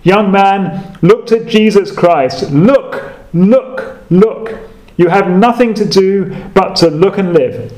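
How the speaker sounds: preacher's urgent call, without real shouting; restrained pulpit cry, pitch slightly lifted; mild retold shout. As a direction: call out each command, lightly imitating a shout. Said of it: "he shouted at the top of his voice".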